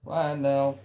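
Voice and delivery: Falaq sung short with a rising note. Shown as a demonstration. Teacher showing students that Falaq rises, short. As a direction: lift the pitch on Falaq, keep it short. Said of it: "Ya, naik".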